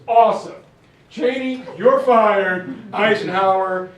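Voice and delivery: loud, punchy retold firing; decisive commander. Marshall firing and promoting officers on the spot, loud and decisive. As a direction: imitate a boss announcing decisions loudly.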